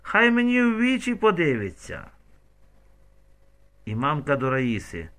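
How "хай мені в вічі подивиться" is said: angry demand. A narrator's reading. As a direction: demand it furiously. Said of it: "Раїса до мамки".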